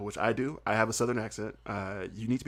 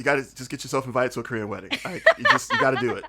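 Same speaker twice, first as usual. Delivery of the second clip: laughing through it; 4 dB louder, faster than usual. Real, not acted. Laughing while urging a Korean wedding.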